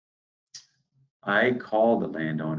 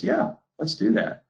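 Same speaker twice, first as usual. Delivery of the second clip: farmer agrees; 10 semitones higher than usual. Retold or imitated. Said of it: "He goes".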